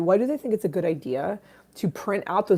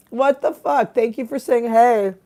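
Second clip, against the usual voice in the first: excited; 4 semitones higher, 5 dB louder than usual. Real, not acted. A viewer joins the stream.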